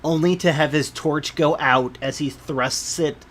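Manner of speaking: measured game master storytelling; scene narration. A narrator's reading. Game master describing a festival procession to players, measured narration. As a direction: read the scene out with deliberate phrasing.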